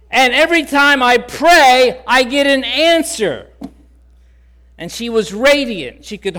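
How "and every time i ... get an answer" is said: high and loud happy declaration; joyful exclaim. Retold or imitated. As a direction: announce it with delight. Emma's joyful testimony continues.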